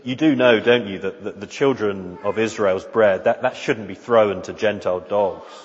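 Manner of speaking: understated tone of love; knowing, loving smile. Acted. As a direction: say it kindly through a slight smile. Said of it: "with a sort of knowing smile, a smile of love".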